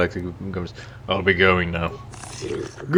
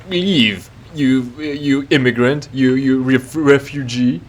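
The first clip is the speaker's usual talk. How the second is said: racist NPC rant; 3 semitones higher than usual. Retold or imitated. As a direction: spit the insults like a rude dockworker. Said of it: "and he says".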